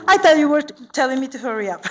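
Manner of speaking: laughing while talking; words through a real laugh. Real, not acted. Laughs at chair's gesture.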